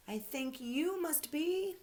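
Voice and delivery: teddy thrilled at his guess; excited guess. Acted. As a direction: build up to the big reveal.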